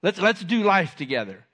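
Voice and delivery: hey man, let's hang out, breezy; casual buddy invite. Retold or imitated. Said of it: "In today's vernacular".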